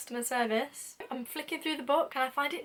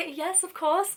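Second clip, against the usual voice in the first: trying to act; 6 semitones higher, slower than usual. Retold or imitated. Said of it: "Trying to act".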